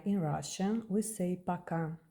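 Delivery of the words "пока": "пока" with the final A stressed, first O as ah; stress on the last A. Shown as a demonstration. Teacher asking learners to hear the stress in пока. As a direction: say "пока" as paKA. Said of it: "Can you hear the accent?".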